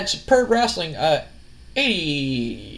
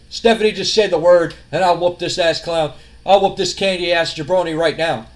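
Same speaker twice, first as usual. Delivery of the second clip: louder, cocky imitated Rock trash talk; Rock promo voice; 3 dB louder than usual. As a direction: hype it up like a wrestling promo.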